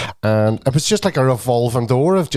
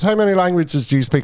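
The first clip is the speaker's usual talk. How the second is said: imitated excitable question, pitched up; higher retold voice; excitable man; 6 semitones higher than usual. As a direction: quiz someone like an eager stranger. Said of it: "he was real excitable".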